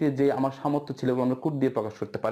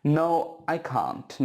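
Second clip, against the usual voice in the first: slow model answer; much slower than usual. Shown as a demonstration. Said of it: "No হলে".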